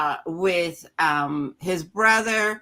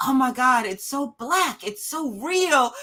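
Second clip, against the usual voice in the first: mock white editors; 3 semitones higher than usual. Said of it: "they're like".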